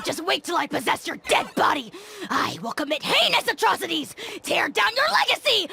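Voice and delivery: shouted, hammed-up villain rant; ranting dragon spirit shouting threats; furious threats. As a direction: bluster and threaten at full volume. Threatens Kenichi in fury.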